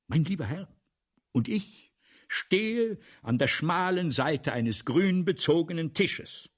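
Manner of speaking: rising excitement. Acted. Balzac building up to the audience.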